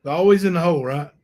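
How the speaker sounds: sarcastic remark about the prisoner. Real, not acted. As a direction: scoff at it as if everyone knew. Sarcastic jab at the inmate.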